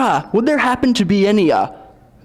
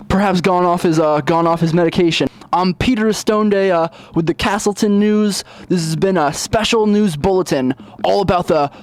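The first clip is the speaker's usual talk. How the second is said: news reporter. Acted.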